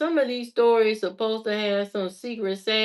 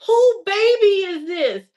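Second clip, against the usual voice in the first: mock yell; 8 semitones higher, 5 dB louder than usual. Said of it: "they yelling".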